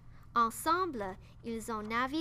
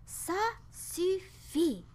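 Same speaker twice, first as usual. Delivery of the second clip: high, slow, exasperated shout; fed-up captain yelling; 7 semitones higher, slower than usual. A narrator's reading. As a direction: bellow that enough is enough. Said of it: "a crié le capitaine".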